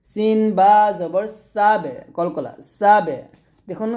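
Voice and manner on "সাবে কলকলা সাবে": সাবে with a bouncing release of ব; qalqala. Shown as a demonstration. Teacher drilling qalqala, সাবে with echoed ending.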